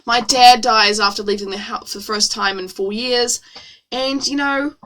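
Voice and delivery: low, shrugging sarcastic deadpan; mock nonchalance. Reader mocking the redhead's shrug, sarcastically nonchalant. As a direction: play it off as no big deal. Mocks "that's life" shrug.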